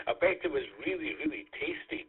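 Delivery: laughing breathily through the words. Real, not acted. Net control laughing at Rick's food. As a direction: giggle it out, half whispered. Teasing about unhealthy food.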